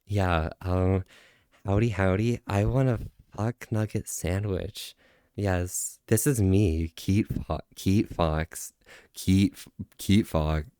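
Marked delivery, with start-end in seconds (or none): 1.6-10.6 halting, lower attempt at a streamer impression; lightly put-on voice, retrying the name; unsure imitation of a fox persona; Keat Fox. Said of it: "I can't fucking do a Keat impression".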